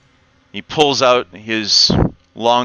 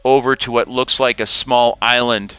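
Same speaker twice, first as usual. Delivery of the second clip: game master scene setting; 3 dB quieter than usual. A narrator's reading. GM sets the cavern scene.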